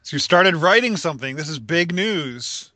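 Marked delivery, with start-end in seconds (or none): 1.4-2.7 slow dramatic emphasis. Acted. Mock announcement.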